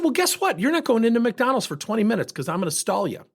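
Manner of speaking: sharp, high, sarcastic taunt; defiant challenge. Retold or imitated. Taunting the hurried driver at McDonald's, sharp and high. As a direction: dare him, voice up.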